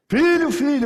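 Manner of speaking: high, urgent call; acted dad crying out for his boy; imitated worried father calling. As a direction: call out after a runaway child. Father calling after his fleeing son.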